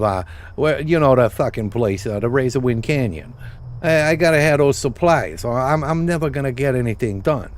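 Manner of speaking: lightly voiced goblin hustler, a bit brighter and pushier. Goblin quest giver asking the player for help, lightly voiced hustler. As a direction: read the quest like a small-time goblin fixer. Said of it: "Racially problematic goblin stereotype".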